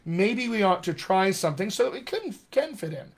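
a hint of a scheming inner voice; brain pondering. Brain to itself, working out how to fit in, lightly acted pondering. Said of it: "And your brain says".

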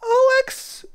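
high sleepy little voice; sleepy child voice. Acted. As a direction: call out half asleep, high. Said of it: "A sleepy voice breaks in the silence".

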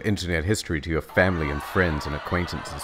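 mock sponsor read. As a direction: pitch the ad with hammy energy.

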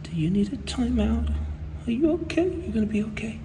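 high, sing-song comforting; mock concern. Hanger mockingly soothing the designer, high sing-song concern. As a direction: talk to her like a child.

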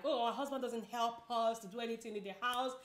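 wife moaning about her husband, mock whine; mock complaining mom. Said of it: "we complain too much, like".

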